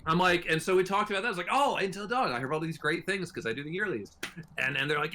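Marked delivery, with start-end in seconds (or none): 1.5-4.1 put-on Scottish accent. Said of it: "I'm not just giving them a weird accent".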